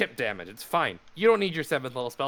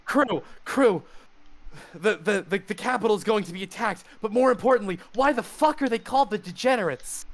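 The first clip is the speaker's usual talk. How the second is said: put-on Russian accent; 8 semitones higher than usual. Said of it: "I shouted in my Russian accent".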